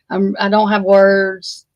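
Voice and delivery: slow halting stutter; stumbling over words, slowly. Real, not acted. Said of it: "I'm stuttering".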